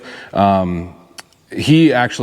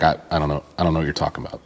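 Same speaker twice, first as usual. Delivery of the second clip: retold clueless reply; 6 semitones lower, 7 dB quieter, much faster than usual.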